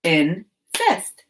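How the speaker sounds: "Insist" split into two syllables with a clear pause between; "Insist" broken as in... sist; chopped syllables. Shown as a demonstration. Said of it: "Now chop the syllables in".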